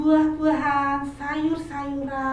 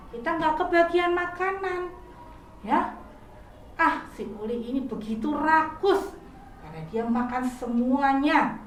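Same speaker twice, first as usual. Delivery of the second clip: angry friends; 5 semitones higher than usual. Acted. Hungry friends complaining about greedy Uli, mildly angry. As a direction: grumble like hungry friends left nothing. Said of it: "Kemudian mereka menjadi marah".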